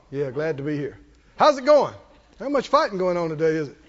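lightly voiced cheerful boy with sandwiches; casual friendly kid strolling into camp; young David. David greeting the soldiers, a hint of cheery boy. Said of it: "He said".

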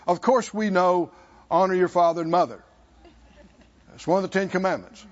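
mock-smug, quick and offhand recital. Preacher mimics experts in the law, smugly. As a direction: rattle it off like a know-it-all. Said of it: "looking at him smugly going".

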